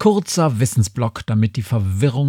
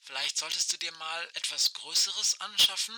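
crackling radio voice, much softer; like a far-off voice over a walkie-talkie; old rotary phone; 2 semitones higher, 13 dB quieter than usual. Acted. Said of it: "Aisches Stimme knarzt durch das Funkgerät".

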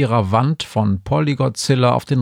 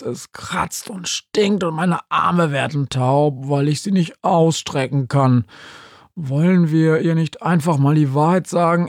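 higher, whiny plea; Polly complaining; 4 semitones higher than usual. Acted. Polly jammert Günther vor, hoch und klagend. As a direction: plead in a raised voice.

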